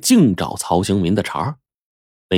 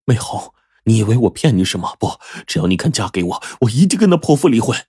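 vowing earnestly. Acted. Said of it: "信誓旦旦地说".

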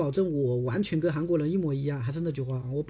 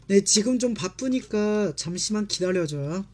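fast read; 2 semitones higher, 3 dB louder, much faster than usual. Shown as a demonstration. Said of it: "我在读慢的时候".

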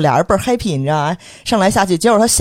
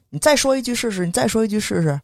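higher-pitched mock threat; imitated middle-aged man; 6 semitones higher than usual. Man confronting her at the office gate, mildly threatening imitation. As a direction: lightly mimic a belligerent state-enterprise man. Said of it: "特像中年国企男性那种".

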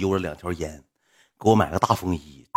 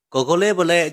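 high put-on doting voice; mock pet-talk; 9 semitones higher, 4 dB louder than usual. Supporter calling the streamer doggy, high mock baby talk. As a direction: coo it as if to a dog. 演主人逗狗狗.

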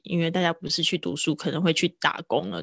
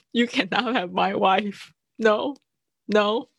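mock indignant refusal; 3 semitones higher, slower than usual. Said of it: "对方就觉得".

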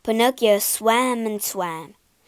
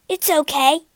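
higher, louder, firm promise; declaring firmly; 5 semitones higher, 5 dB louder than usual. Acted. Pinocchio reassures Geppetto, firm declaration. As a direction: declare it to lift his father. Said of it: "he declared".

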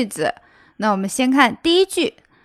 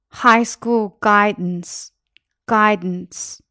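very slow; much slower than usual. Shown as a demonstration. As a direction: drag the phrase out word by word. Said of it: "teacher slows a phrase for learners". (非常慢地拉长读)

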